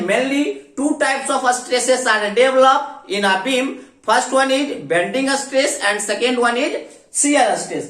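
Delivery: very slow, word by word, for students to write down; slow dictation. Shown as a demonstration. Teacher dictating the key point to students, very slow. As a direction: spell it out slowly so the class can copy. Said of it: "पहले आप इसको note down कर लीजिए".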